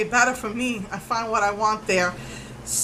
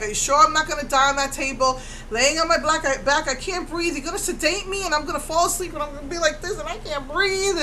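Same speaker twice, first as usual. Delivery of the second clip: anxious fretting; 4 semitones higher than usual. Retold or imitated. Panicking to the MRI scheduler.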